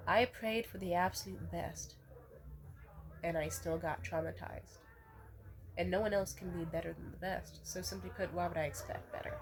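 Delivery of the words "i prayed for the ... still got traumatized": slow, measured restatement; slowly, deliberately. Real, not acted. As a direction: spell it out slowly for emphasis. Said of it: "say it again slowly".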